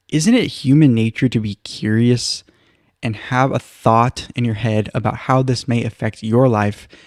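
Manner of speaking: ordinary talk, nothing marked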